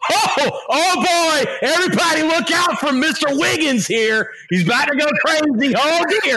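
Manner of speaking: high-pitched mock-English fuss; hammed-up English cop sounding the alarm; English accent. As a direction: squeal it out in a silly English accent. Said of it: "English accent".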